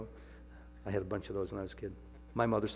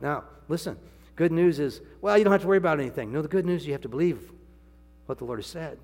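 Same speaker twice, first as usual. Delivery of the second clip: higher, louder and faster; preaching emphasis; 6 semitones higher, 9 dB louder, faster than usual. Real, not acted. Preacher urging the congregation, rising loud. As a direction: push the good news hard. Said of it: "preacher building emphasis".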